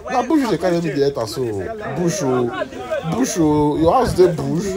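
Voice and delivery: high, fast alarmed complaint; alarmed surprise. Acted. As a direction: protest in alarm. Surprised friend complaining about bush.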